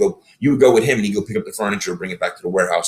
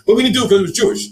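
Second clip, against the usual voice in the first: panicked, fast protest; 12 semitones higher, 4 dB louder, faster than usual. Retold or imitated. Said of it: "I was like".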